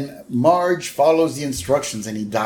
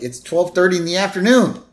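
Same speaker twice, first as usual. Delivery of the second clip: Selma; 7 semitones higher, 4 dB louder, faster than usual. Retold or imitated. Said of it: "And Selma's like".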